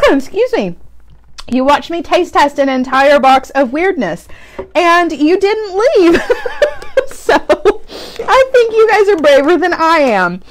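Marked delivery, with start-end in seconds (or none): 4.7-10.4 laughing. Real, not acted. Laughing thanks to viewers.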